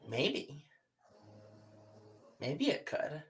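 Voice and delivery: softly even, holding back eagerness; quiet, level salamander voice; calm and neutral. A narrator's reading. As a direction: keep it calm, hide the want. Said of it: "he says it very calmly and neutrally".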